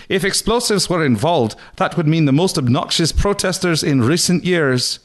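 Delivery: hammed-up reporter impression; Geraldo voice. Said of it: "and stated".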